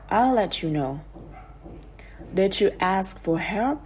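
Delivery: teacher reading English example sentences with the sounds linked together. Shown as a demonstration. Teacher demonstrating linked sounds to learners, read carefully. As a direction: read each example carefully so the words run into each other. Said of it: "tôi sẽ là người đọc ví dụ".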